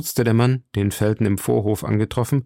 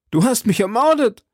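high, anguished accusing cry; 12 semitones higher, 4 dB louder than usual. A narrator's reading. Stabbed duke cries out at his murderer, high and shocked. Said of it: "schrie Buckingham".

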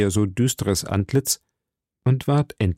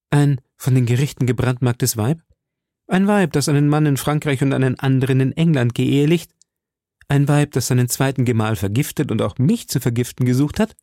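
lightly voiced musketeer, a little raised; indignant young musketeer; 4 semitones higher than usual. Young man denouncing a murderess to the cardinal, mildly indignant. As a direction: denounce her with mounting questions.

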